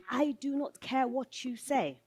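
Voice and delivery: acted-out dismissive retort; dismissive colleague. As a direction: shut the challenge down, word by word. Colleague rebuffs her challenge, acted.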